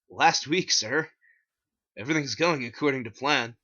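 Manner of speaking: polite store clerk voice; cashier voice. Acted. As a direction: answer like an eager employee. Cashier replies.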